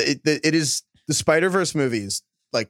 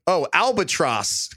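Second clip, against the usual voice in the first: put-on Boston accent; slower than usual. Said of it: "my Boston accent".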